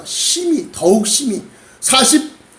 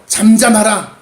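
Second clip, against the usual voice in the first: raised, sharp hushing orders; scolding. Acted. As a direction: rebuke him as the annoyed crowd. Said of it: "꾸짖어". (꾸짖는 높은 목소리)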